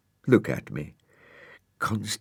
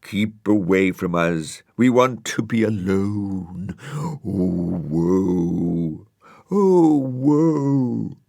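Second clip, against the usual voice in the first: slow, mournful plea to be left alone; mildly hammed-up tree lament; weeping trees; 3 semitones higher, 5 dB louder, much slower than usual. A narrator's reading. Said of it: "the trees wept buckets".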